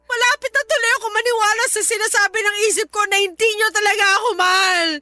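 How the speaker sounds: tearful, crying out the last words; hurt daughter breaking down in tears. Acted. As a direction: voice breaking into a sob. Daughter confronts parents, breaks down.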